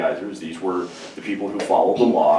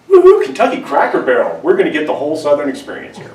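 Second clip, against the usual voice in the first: much higher, louder, rushing cheer; tourist glee; 6 semitones higher, 6 dB louder than usual. Retold or imitated. Couple arrives at Cracker Barrel, giddy whooping.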